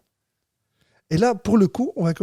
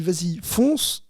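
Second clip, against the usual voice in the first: mother's go-ahead; 4 dB quieter, much slower than usual. Retold or imitated. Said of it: "elle m'a dit".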